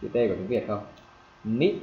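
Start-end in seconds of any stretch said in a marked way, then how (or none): 1.4-1.7 "Mid" as Vietnamese "mít", rising and cut short; short rising "Mid", swallowed T; stopped final T. Shown as a demonstration. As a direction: stop the tongue on the end of "Mid" without release. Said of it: "dừng lại cái chữ mid".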